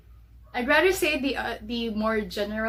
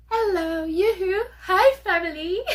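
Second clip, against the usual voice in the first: cheery greeting; 9 semitones higher, 8 dB louder than usual. Pretend. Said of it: "I would just like to say".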